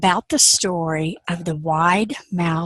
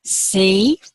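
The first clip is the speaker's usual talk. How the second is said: a knowing whispered "See?"; whispered aside. Acted. Speaker nudges the audience after the joke, whispered.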